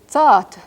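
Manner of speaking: tsat with a faint whispered U after the T; whispered final vowel. Shown as a demonstration. Teacher gives the word for good, tsat with whispered ending. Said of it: "it ends in a whispered barred U".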